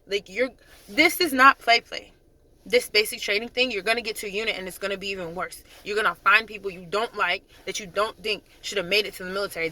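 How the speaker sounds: emphatic, driving retold dressing-down; harsh retold lecture. Sergeant telling whining privates they must cope, harsh. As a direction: retell a sergeant's tough talk, overdoing the harshness. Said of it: "I wasn't that harsh".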